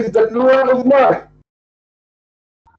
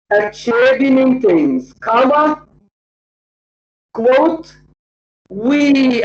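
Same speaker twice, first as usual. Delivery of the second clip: dictating; much slower than usual. Shown as a demonstration. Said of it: "you may write it another time".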